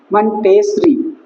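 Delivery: syllable by syllable. Shown as a demonstration. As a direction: split it slowly into मन, टेस, री. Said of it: "या आप यहाँ पे कर सकते हो".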